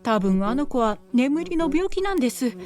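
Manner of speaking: lightly voiced anxious mother; pleading mother. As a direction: beg the villagers to spare her.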